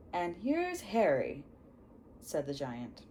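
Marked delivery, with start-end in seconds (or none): 0.1-1.4 put-on Hagrid accent. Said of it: "he has his accent".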